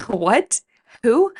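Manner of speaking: baffled, rising to a high, loud "Who?"; confused surprise. Retold or imitated. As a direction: caught off guard, totally lost. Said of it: "and I was like".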